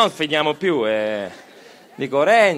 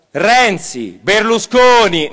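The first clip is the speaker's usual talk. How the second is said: loud name call; 5 semitones higher, 9 dB louder, much slower than usual. Shown as a demonstration. Speaker calling out politicians' names for the crowd's chant, loud. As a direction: shout each name slowly, high and loud. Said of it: "Io dirò quattro nomi".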